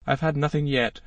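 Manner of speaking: mildly affronted, lifting the pitch; mock offended reply. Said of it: "in an offended tone".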